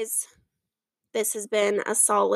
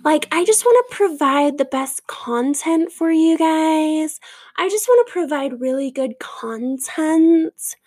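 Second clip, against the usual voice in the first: mock influencer; 2 semitones higher, slower than usual. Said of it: "the word content just drive me insane".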